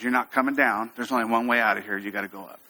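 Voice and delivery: low, matter-of-fact firmness; calm firmness. Retold or imitated. Instructor refusing to let climber down, calmly firm. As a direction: leave no choice, without raising your voice. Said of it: "with that tone of voice".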